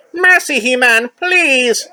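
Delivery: high, loud whiny plea; shrill pleading villain; villain begging. Acted. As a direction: beg for mercy high and shrill. Skeletor begs.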